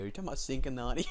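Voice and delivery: laughing. Real, not acted. Laughing at the mix-up.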